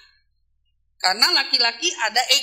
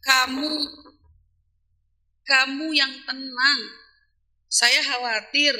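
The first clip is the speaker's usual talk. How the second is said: gentle wife; 2 semitones lower, slower than usual. Pretend. Wife calming her angry driving husband, gently. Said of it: "jangan kayak orang gergetan gitu".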